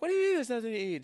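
high, fast mock comeback; imitated exasperated partner. Husband mimicking partner's reply to his hunger complaint, high mock exasperation. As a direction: fire back in a put-on high voice.

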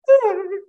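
emotional laugh. Real, not acted. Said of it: "not gonna get emotional".

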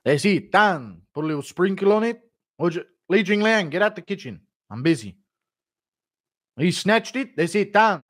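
lightly voiced fighter impression; busy cook's lines, slightly put-on; Volk. Fighter cooking a rival's dog, lightly acted impression. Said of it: "Volk cooking Izzy's dog impression".

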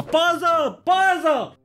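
calling out. Retold or imitated. Calling for security during a fight.

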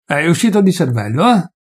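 mild anger. Acted. Peasant's raging reply.

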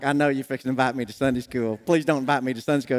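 low, muttered aside of dread; dreading inner plea. Retold or imitated. Man seeing David walk toward him, low dreading plea. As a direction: plead under your breath, pitch dropped.

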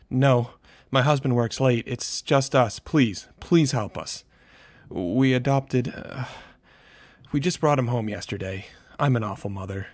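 high, loud tearful panic. A narrator's reading. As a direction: plead through panic and guilt. Panicked mother on phone.

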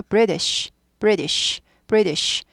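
British as BRI-desh, t softened to d; falling British with a weak second syllable; weakened-t British. Shown as a demonstration. Teacher drilling the word, weakened-t British. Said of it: "T보다 약화돼서".

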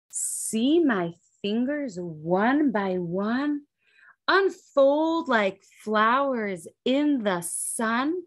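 gentle slow read-aloud verse; slow storybook reading. A narrator's reading. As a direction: unfold each word slowly. Reads rhyming verse slowly.

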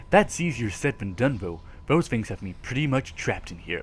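soft, measured note read as Jack. Acted. Gamer reading the hero's note to viewers, soft narration. Reads in-game note aloud.

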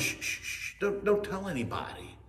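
soft, hurried shushing; urgent hushing. Acted. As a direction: hush someone to keep a secret. Jesus hushing an excited witness.

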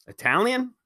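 screech. Acted. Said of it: "he screeched".

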